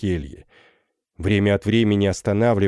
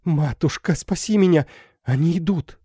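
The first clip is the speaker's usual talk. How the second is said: high, pleading cry for help; desperate plea; 9 semitones higher than usual. Acted. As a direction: beg her mother to save her. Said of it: "с отчаянием бросилась". (отчаянная мольба, высоким голосом)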